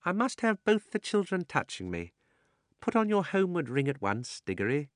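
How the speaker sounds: put-on a scheming uncle urging the children on; sly old gentleman.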